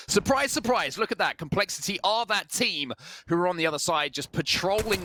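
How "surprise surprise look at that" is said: excited reveal. Real, not acted. Caster spots hidden team.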